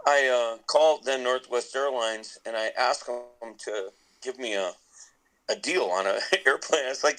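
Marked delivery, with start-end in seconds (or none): none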